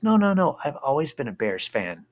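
high squeaky no no no; teen daughter protesting. Retold or imitated. Daughter denying she roots against family, high and squeaky.

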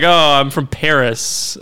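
slow, lightly put-on French accent; a hint of a French accent, drawn out; fake French accent. Friend mocking tourists, in a light fake French accent. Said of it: "and I have a French accent".

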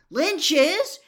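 high, very loud cry; loud, urgent shout; excited yell. A narrator's reading. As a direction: yell the correction over the crowd. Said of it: "yelled Harry".

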